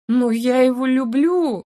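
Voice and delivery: slow, loud tearful outburst in a changed voice; hysterical cry. A narrator's reading. Heroine crying out to her elf friend, loud tearful hysterics. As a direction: break into hysterics on the words. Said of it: "банальная истерика".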